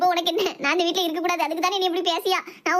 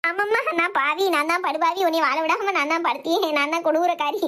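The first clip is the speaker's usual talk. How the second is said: sarcastic self-pity. Acted. Mother-in-law self-pitying sarcasm.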